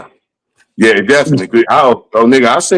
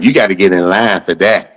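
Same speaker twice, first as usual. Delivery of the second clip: lower-pitched mock brush-off; T K Kirkland; 4 semitones lower than usual. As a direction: imitate a comic dismissing a newcomer. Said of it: "He told me just like this".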